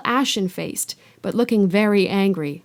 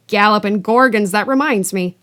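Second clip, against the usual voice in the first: sudden exclamation; 7 dB louder than usual. Acted. Hagrid suddenly remembers.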